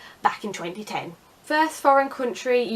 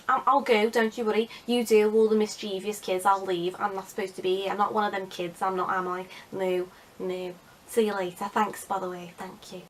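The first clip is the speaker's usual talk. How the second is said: put-on Liverpudlian accent. Pupil excusing himself from detention, mild Liverpudlian accent. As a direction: back off in a Liverpudlian accent, trailing away. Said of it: "we weren't Liverpudlian".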